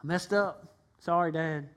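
lazy shrug of a son asking for everything back; careless flippant son. Acted. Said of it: "Not just come back and say".

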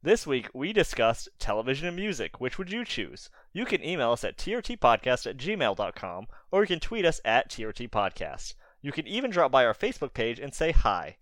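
lightly scripted outro delivery; podcast sign-off read. Acted. Host thanking listeners at episode's end, scripted sign-off. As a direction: read it out as a practised host closing the show.

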